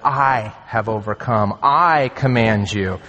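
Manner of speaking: slow, emphatic "I" at the start of each phrase; deliberate weight on "I"; stress on I. Shown as a demonstration. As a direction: punch each "I", measured pace. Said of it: "it's emphatic".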